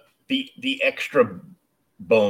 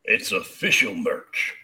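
slow, lightly put-on DJ voice; 2 semitones lower, slower than usual. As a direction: stretch it out a little like a DJ. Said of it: "That was in your best D J voice".

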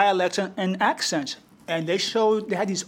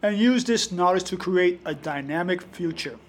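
radio voice. Shown as a demonstration. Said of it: "it sounds like my radio voice".

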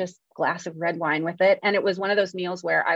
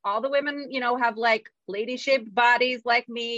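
higher-pitched rhapsodizing about Florence; gushing delight; 4 semitones higher than usual. Retold or imitated. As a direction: gush happily, held up high.

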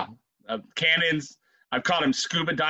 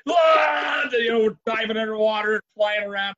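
excited rapids story; 4 semitones higher than usual. Retold or imitated. Retelling the wild ride.

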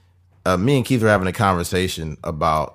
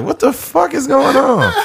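laughing disbelief. Retold or imitated. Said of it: "You be like".

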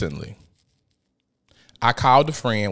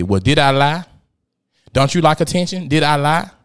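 defiant taunt; 2 semitones higher, 4 dB louder than usual. Retold or imitated. Ex-friend defiantly justifies dragging.

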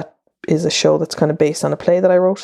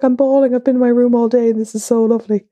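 tearful gushing quote; 7 semitones higher than usual. Retold or imitated. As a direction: gush it out like a nurse in happy tears. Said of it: "She's like".

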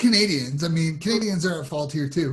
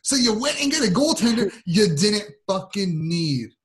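exasperated argument; 6 semitones higher than usual. Real, not acted. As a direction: hammer each point home in exasperation. Heated argument over a goalie trade.

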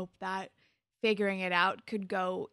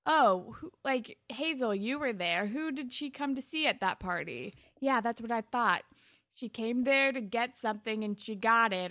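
imitated slut-shaming; 3 semitones higher, 5 dB louder than usual. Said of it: "super slut shames her".

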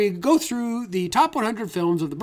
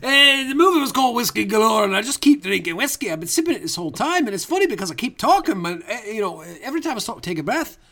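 thick hammed-up Scottish accent; tipsy Scottish ghost rambling on. Ghost guest introducing the movie to the hosts, Scottish brogue.

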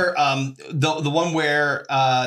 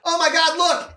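mock shocked excitement; 9 semitones higher than usual. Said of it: "Randy's like".

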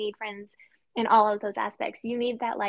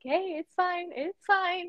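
higher-pitched imitation of a comforting friend; lightly acted soothing, pitched up; imitated reassurance; 8 semitones higher, slower than usual. Friend to a wife who needs a good cry, imitated reassurance.

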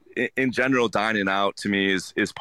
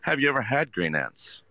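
higher, curious question to a guest; engaging question; 4 semitones higher than usual. Shown as a demonstration. Waiter engaging guests at the table, higher and curious. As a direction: draw the guest in with a friendly question. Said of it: "ask them a question to engage with them".

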